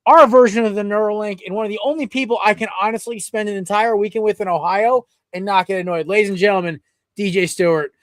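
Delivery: upbeat podcast announcer delivery; sponsor read and intro. Real, not acted. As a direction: read the sponsor, then present the guest.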